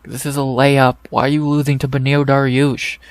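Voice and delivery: annoyed fan yelling at the screen; real annoyance. Real, not acted. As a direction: vent at him like he blew an easy win. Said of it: "I'm actually getting annoyed now".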